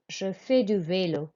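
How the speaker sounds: "Je fais du vélo" with silent S; careful French for repeating; model French pronunciation. Shown as a demonstration. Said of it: "Écoutez et répétez".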